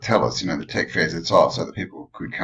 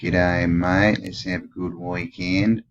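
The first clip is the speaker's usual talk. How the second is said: Aussie accent; slower than usual. Shown as a demonstration. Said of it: "Trying to get rid of my Aussie accent".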